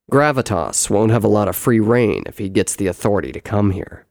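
loud, firm brother's voice; full-voiced story character, assured; reasoning brother. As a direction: argue it forcefully as the elder brother. Brother warns his sisters.

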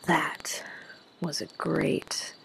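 slow, halting, half-whispered reply; barely managing words. Acted. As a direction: summon each word with effort. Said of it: "barely able to summon the words".

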